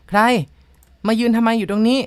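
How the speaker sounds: fairly loud narrated shout; shouted challenge. A narrator's reading. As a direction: call out loudly to challenge a stranger. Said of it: "ตะโกนไปด้วยเสียงดังพอสมควร".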